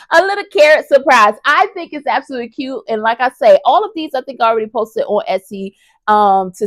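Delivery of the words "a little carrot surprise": louder, gleeful repeat of the reveal; gleeful carrot surprise; delighted repeat. Real, not acted. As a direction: savor the words with glee.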